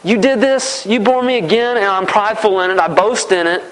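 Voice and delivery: smug, self-satisfied prayer, not overdone; mock boastful prayer. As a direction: play the bragger puffed up with himself, a touch mocking. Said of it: "Do we use this to brag and say".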